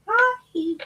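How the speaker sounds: sugary falsetto hi to the cameras; mock greeting. Speaker mockingly greeting city recorders in high falsetto. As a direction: squeak it up high, all fake sweetness. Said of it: "I'm just gonna say".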